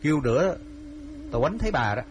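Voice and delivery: high, sharp scolding snap; angry snapping. A narrator's reading. Husband snapping at his wife to leave him alone, high angry snap. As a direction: glare and snap at her to go away. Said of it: "trợn mắt và nạt".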